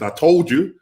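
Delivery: a hint of a Jamaican dad saying I told you; Jamaican accent. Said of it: "when he said it in a Jamaican accent".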